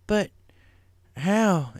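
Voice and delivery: country pony; Applejack voiced. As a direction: demand an answer. A J asks.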